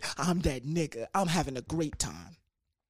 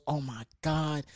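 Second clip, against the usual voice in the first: softer, sorry-sounding apology; a mild, quiet apology; apologetic; 4 dB quieter than usual. Retold or imitated. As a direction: say it like you're truly sorry. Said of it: "super apologetic, super nice".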